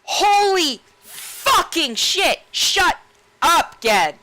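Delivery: very high, loud, slow screaming rant; hammed-up furious yell; Anduin screaming. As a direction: shriek him down in mock fury. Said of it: "and Anduin's like".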